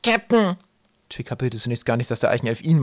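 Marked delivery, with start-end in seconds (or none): 0.0-0.6 high, urgent shout; high-pitched loud hail; excited call. A narrator's reading. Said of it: "hörte er Zacke aufgeregt rufen".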